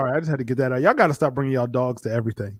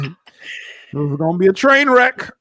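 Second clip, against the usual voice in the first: slow mock dread; 3 semitones higher, slower than usual. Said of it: "It's like".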